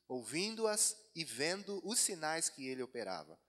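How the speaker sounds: loud, projected Bible reading; declaimed verses, measured and forceful; scripture reading. Acted. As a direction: read scripture out firmly to a congregation. Reads Bible chapter to congregation.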